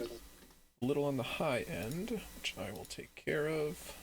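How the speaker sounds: soft unvoiced whisper; whispered aside. Real, not acted. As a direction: whisper it to yourself. Aside while adjusting levels.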